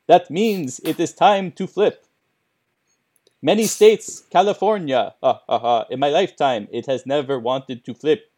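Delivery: spooky Count voice, sly and pleased; lightly voiced vampire count. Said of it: "Count voice continues".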